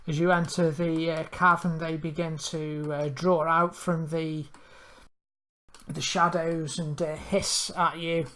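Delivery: slow, measured scene-setting narration; game master narration. Acted. Game master setting the vampire cave scene, slow narration. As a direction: draw the players into the cavern, slowly.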